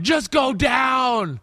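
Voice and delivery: urging a runner from the couch, loud shout. Retold or imitated. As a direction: yell at the screen for him to go down. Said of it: "I was literally going".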